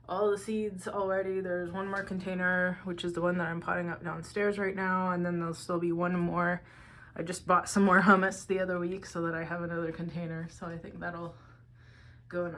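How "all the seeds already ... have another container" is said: breathless after climbing stairs; out of breath. Real, not acted. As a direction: talk out of breath, panting lightly. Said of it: "I'm out of breath from climbing the stairs".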